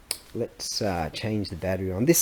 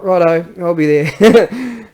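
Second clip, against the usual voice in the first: keen agreement; 7 semitones higher, 9 dB louder, slower than usual. Retold or imitated. Accepting the phone invitation.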